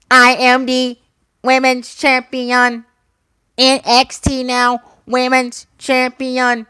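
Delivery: slow, mocking robotic champion voice; mocking Charlotte. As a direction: drawl it like a smug robot. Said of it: "the woman that just says".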